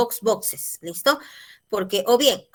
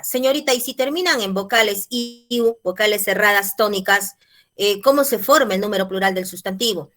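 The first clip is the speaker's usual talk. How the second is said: louder, lightly voiced pupil asking; student's question; 5 dB louder than usual. Student asks teacher about plurals, louder questioning voice. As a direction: put the question like an eager pupil.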